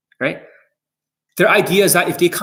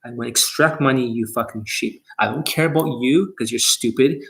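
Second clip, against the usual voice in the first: mock sleazy coach; 4 semitones lower than usual. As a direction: lay on fake comfort with a sneer underneath. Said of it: "It means".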